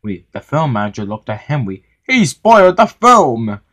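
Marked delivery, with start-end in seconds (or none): 2.1-3.6 high, heated storybook argument; cross. A narrator's reading. Engine and film manager quarrel over James, cross. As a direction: argue back in a raised, cross voice. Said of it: "said Henry crossly".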